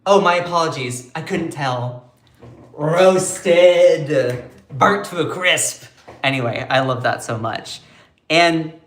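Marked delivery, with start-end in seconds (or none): 0.1-2.1 sarcastic. Retold or imitated. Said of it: "Balint is like". 2.7-5.8 gleeful exclaim. Real, not acted. Gleeful punchline.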